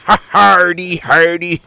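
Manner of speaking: high, loud heave-ho shout; hauling call. A narrator's reading. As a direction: haul the rope as you call. Captain calls out hauling.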